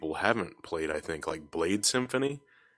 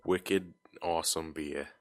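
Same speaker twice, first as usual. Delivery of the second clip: bad Boston accent; 3 semitones lower, 7 dB quieter, slower than usual. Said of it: "supposed to be like a Bostonian accent".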